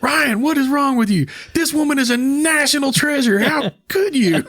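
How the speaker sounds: high, hammed-up outraged scolding; mock indignation, stretching the final reproach; Sandra Bullock. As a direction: imitate a scandalized co-star far up in pitch. Acting Sandra scolding Ryan, outraged.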